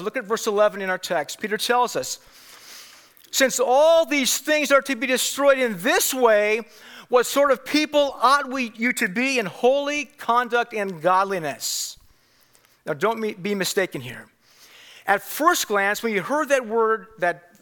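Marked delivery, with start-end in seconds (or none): 3.3-12.0 raised, emphatic Bible reading; scripture reading. Acted. Preacher reading Peter's words to the church, proclaimed emphatically. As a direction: proclaim the verse with weighty pauses.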